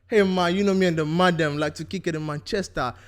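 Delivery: put-on lightly done London roadman accent; English accent. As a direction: loose London slang voice, bruv. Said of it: "We do our best English accent".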